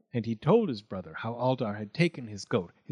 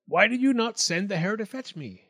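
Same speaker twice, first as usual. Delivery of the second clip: raised, demanding question; goatman voice, higher; 8 semitones higher, 4 dB louder than usual. A narrator's reading. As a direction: ask it higher and louder.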